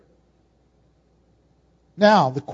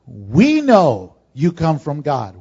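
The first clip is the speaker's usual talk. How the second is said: lightly voiced Nicodemus; 6 semitones lower, 4 dB louder, slower than usual. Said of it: "and he says this".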